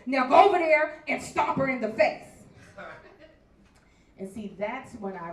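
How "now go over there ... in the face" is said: voice of God. Retold or imitated. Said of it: "He said".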